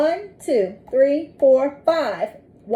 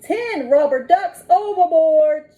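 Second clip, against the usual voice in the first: mild shout; 4 semitones higher, 4 dB louder, slower than usual. Acted. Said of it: "shouts the captain".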